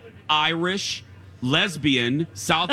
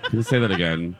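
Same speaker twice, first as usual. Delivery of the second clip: mock weariness at having to ask; exasperated assistant; 3 semitones lower than usual. Host plays Siri who didn't hear, exasperated. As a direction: sigh first, then a put-upon request. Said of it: "I want her to be exasperated".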